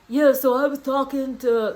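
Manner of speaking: a Southern American commentator drawl; Southern accent. Retold or imitated. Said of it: "I don't know why Michael's Southern".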